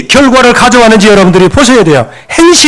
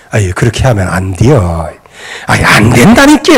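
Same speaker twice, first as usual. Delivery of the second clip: mild chiding; 12 semitones lower than usual. Retold or imitated. Father to misbehaving sons, mild chiding. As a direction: lightly imitate an ineffectual scolding father. Mimics ineffectual moralizing parent.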